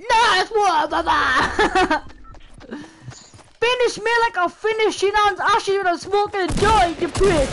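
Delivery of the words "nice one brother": laughing shout. Acted.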